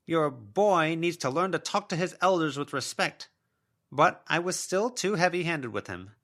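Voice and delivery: a mother's ghost listing her excuses; self-pitying spectral mother; wounded ghost mother. A narrator's reading.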